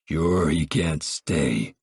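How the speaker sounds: low, slow, tired father; Pa agreeing. Acted. Pa slowly agrees with Tom Grandpa can't stay, low. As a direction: drag it out low and weary.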